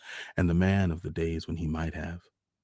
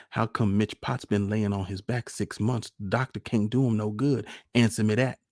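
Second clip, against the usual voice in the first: higher, insistent wife's voice; arguing country wife; 4 semitones higher, 5 dB louder than usual. A narrator's reading. Wife tells her husband a witch put a spell on their son, insistent. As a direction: argue your case as the worried mother, pitched up.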